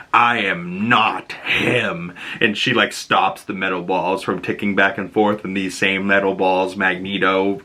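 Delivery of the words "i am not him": very slow, heavy, lightly menacing denial; angry denial. Retold or imitated. Polaris tells her boss she is not Magneto, slow and restrained anger. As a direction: grind out each word as a warning. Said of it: "looks at her all angry and goes".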